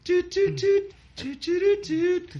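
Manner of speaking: mock horn toots. DJ imitates a horn, high.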